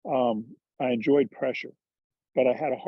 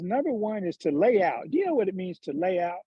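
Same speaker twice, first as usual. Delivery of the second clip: higher-pitched Georgia hick twang; Charlie Reimer's hick accent; 4 semitones higher than usual. Retold or imitated. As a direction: mimic a hick trainer explaining the job. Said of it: "he's got this hick accent".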